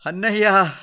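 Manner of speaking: high, loud cry of grief; grieving sister's loud, high call; heart-rending wail. A narrator's reading. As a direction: cry out to your brother in anguish. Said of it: "అంటూ గుండె లవిసేలా ఏడ్చింది".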